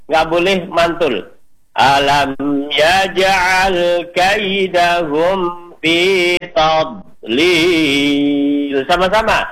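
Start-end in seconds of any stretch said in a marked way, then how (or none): 1.7-8.8 slow melodic tartil chant; teacher modelling tajwid recitation; Quran recitation. Shown as a demonstration. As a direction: recite it measured and sung.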